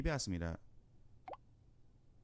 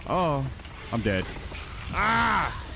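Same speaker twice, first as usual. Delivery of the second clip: loud; 3 semitones higher, 5 dB louder, slower than usual. Real, not acted. Dying in game.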